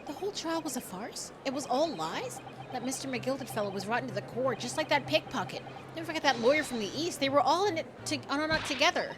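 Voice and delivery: worked-up, disbelieving outburst; agitated courtroom onlooker. Acted. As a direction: voice an indignant member of the gallery. Voices game character in courtroom.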